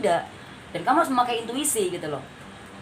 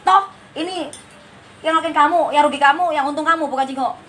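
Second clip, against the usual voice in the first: higher-pitched, slightly snappish advice; mild scolding; 3 semitones higher than usual. Real, not acted. Tarot reader urging a client to put career first, mildly scolding. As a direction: scold lightly, pressing the point with raised pitch. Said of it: "nadanya agak bentak-bentak".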